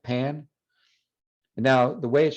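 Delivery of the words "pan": pan with an aspirated English P. Shown as a demonstration. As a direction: say "pan" with a puff of air on the p. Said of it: "You feel that air coming out?".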